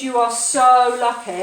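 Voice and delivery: put-on Indian accent. Hotel manager to guest, emphatic Indian accent. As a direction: stretch it out in a mock Indian accent. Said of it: "that was an Indian accent there".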